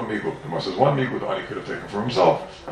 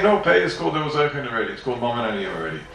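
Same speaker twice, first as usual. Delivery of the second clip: mock answer in a raised voice; voicing the answer; 2 semitones higher than usual. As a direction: play the one who answers the kasha. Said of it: "you can answer and say".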